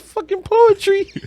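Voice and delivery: high, slow, ironic awe; sarcastic reverence; mock praise. Real, not acted. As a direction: savour it like fine art, jokingly. Mock praise of a movie line.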